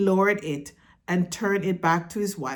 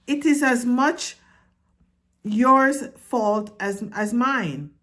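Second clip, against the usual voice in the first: higher, louder offended protest; indignant mother mouse; 6 semitones higher, 3 dB louder than usual. A narrator's reading. Mother mouse protests, offended by the blame. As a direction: bristle at the blame. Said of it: "said Antoinette".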